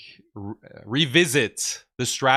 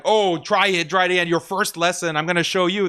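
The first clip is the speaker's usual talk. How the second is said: mock boss babe challenge; 6 semitones higher, 4 dB louder than usual. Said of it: "puffing out her chest".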